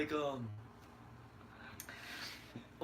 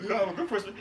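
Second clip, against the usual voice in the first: Al Haymon; 3 semitones higher, faster than usual. Retold or imitated. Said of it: "impression of Al Haymon".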